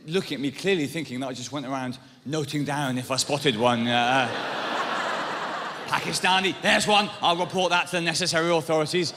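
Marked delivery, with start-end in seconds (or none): 5.9-9.1 mock informer. Acting out the imagined snooping.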